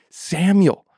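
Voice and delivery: high, slow, drawn-out call; distant calling voice. Acted. God calling Samuel a second time, slow and high. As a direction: stretch the call across the dark.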